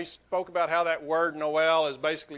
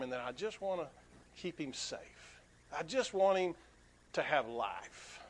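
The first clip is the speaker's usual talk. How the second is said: tender longing. Retold or imitated. Man's tender wish for the bird.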